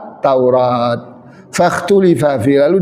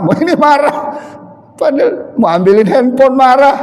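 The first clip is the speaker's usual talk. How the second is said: high whiny complaining wife voice; crying Javanese wife; 5 semitones higher than usual. Retold or imitated. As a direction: whine it like a tearful young bride. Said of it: "ada cerita orang Jawa". (istri Jawa merengek dengan suara tinggi)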